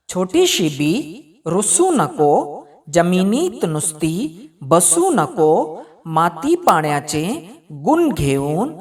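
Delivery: put-on measured, sing-song reading of a children's poem; poem recitation. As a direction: Marathi kids' poem read aloud. Teacher recites Marathi poem.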